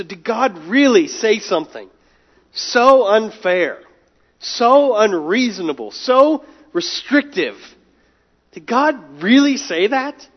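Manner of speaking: slow, drawn-out mock disbelief on really; a preacher's light imitation of a condescending sneer; mild sneering mockery. Preacher voicing the serpent's sneer to Eve, slow mild mockery. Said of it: "This sneer".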